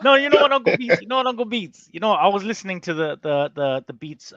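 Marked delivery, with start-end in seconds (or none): 0.0-1.9 much higher and louder, falling at the end; hyped call-out. Real, not acted. Host shouting excitedly to Uncle Beats, loud. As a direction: call him out, fired up.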